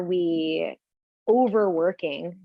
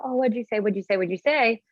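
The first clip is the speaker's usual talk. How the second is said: mildly frustrated repeated asking, slightly higher; imitating frustration; 4 semitones higher than usual. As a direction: act out someone who keeps missing the words. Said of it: "you personally getting frustrated with".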